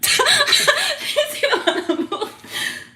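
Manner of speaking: very high, loud, laughed-out question; real laughter. Real, not acted. Showing viewers the stick figure drawing, laughing hard. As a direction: crack up while getting the words out.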